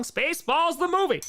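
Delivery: high loud movie-trailer shout; movie quote. Retold or imitated. Streamer quoting Spaceballs in a loud high announcer shout. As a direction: announce it like the film's tagline. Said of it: "Spaceballs watch along".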